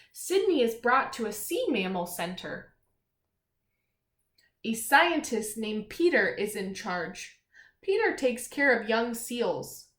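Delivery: lightly storybook read-aloud; reading aloud to children. Acted. Teacher reading a seal story to children, storybook voice. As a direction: read the page clearly to the class. Reads picture book aloud.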